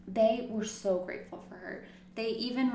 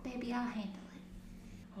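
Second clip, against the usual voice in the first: soft, slow doting grandma voice; 3 semitones higher, 12 dB quieter than usual. Retold or imitated. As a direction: coo it sweetly and slowly. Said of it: "she had that grandma voice".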